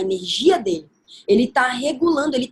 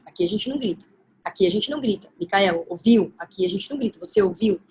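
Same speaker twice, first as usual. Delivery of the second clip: nagging repetition; 4 semitones lower, faster than usual. Retold or imitated. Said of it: "essa história também da gente ficar".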